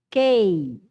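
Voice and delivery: "Kei" said as a plain K sound plus the vowels, no U; silent U. Shown as a demonstration. Teacher showing which letter is silent, "Kei" sounded out without any U. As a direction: sound out "Kei" firmly as one syllable, like English "kay". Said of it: "que você não pronuncia".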